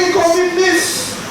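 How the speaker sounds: mock outrage at the word miss; hammed-up offence; indignant. Acted offended woman accuses.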